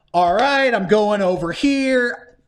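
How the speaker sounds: drawn-out, put-upon compliance; exaggerated reluctant agreement; mock resigned player. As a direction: trudge along grudgingly as the player. Acting the weary player obeying.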